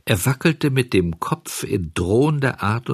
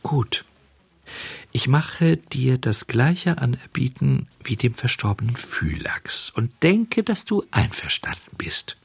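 sly conspiratorial whisper; whispering marten; 3 semitones higher than usual. Acted. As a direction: tempt him in a hush. Marder macht heimliches Angebot. (verschwörerisches Flüstern)

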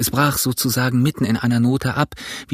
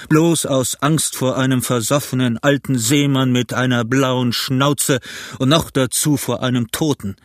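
a pirate's blustering challenge; defiant calling out. A narrator's reading. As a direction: shout down your own fear. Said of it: "machte er eine große Anstrengung und rief".

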